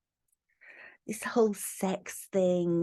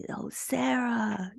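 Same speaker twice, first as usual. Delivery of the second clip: slow, faint gasp of a name; barely able to talk; 3 semitones higher, 3 dB quieter, much slower than usual. Retold or imitated. Dying man calling his partner's name, breathless. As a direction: drag the name out like you've no breath left. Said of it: "he can barely talk".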